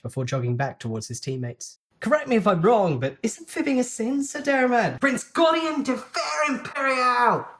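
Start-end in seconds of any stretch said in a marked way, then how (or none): 2.0-7.5 high, loud, slowed announcing call; commanding call. A narrator's reading. Cousin calling out the prince in front of everyone, commanding. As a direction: boom the full name across the yard.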